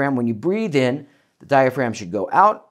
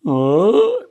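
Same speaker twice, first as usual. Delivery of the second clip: higher, louder yawn falling away; descending yawn; 7 semitones higher, 6 dB louder than usual. Shown as a demonstration. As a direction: let the yawn slide down. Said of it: "yawning down, never up".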